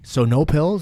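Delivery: high, loud, taken-aback question; patient surprised that no pills are offered. Retold or imitated. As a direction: sound thrown by the news. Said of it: "And I'm like".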